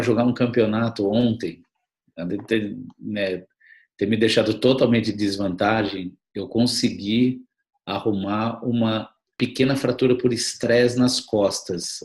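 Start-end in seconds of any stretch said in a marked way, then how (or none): 6.3-12.0 slow, heavy drugged speech; drowsy from medication. Real, not acted. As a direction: sound doped up on medication. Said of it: "que eu tô meio dopado".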